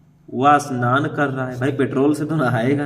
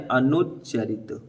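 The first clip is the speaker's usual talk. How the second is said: slow dictated answer; 4 semitones lower, 7 dB quieter, slower than usual. Shown as a demonstration. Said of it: "क्या बोलते हैं?".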